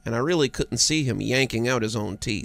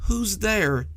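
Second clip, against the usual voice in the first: put-on a child forcing courage into a small voice; small brave voice; 8 semitones higher, 3 dB louder than usual. A narrator's reading. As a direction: sound little but try to be brave. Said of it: "said a small voice that was trying to be brave".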